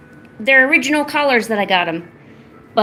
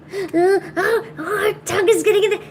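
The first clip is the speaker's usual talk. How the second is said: grossed-out squeal; 8 semitones higher than usual. Real, not acted. Squirming at the pet's tongue.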